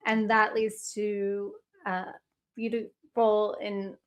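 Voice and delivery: hoarse, losing voice. Real, not acted. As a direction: voice giving out mid-sentence. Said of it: "I'm losing my voice here".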